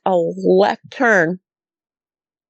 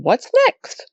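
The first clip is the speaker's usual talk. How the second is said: high-pitched replay of a bewildered thought; retold wondering question; 12 semitones higher than usual. Thinking after howls and tree breaks, wondering. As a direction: voice shooting up high.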